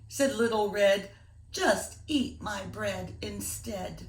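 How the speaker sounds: put-on gentle, rhythmic read-aloud for kids; reading a poem to children. Teacher reading a rhyming poem to boys and girls, storytelling voice. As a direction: lilt the rhyme for a class.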